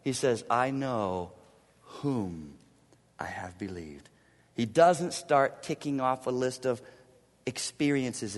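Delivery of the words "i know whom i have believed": hushed, intimate whisper; preacher whispering Paul's confession to the church. Acted. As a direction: breathe the words like a secret. Paul's words said as a secret.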